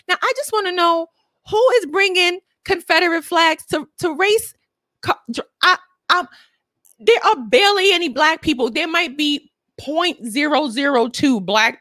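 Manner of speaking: high, disbelieving question; can't believe anyone does this; incredulous. Real, not acted. Incredulous rant about flags.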